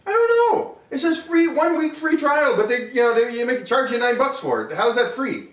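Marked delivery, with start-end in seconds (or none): 0.1-2.6 high, exasperated complaint; indignant. Real, not acted. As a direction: sound fed up and indignant. Indignant about the fake trial.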